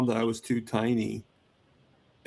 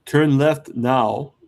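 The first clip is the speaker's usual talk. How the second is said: put-on slow, sassy British accent, loud on the word "Turn"; a British GPS voice giving orders with sass; sassy British sat-nav voice; 4 dB louder, much slower than usual. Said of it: "in a British accent".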